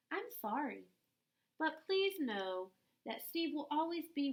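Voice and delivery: gentle storybook reading voice, unhurried; a kind teacher reading a letter aloud to children. Acted. Reads picture book to children.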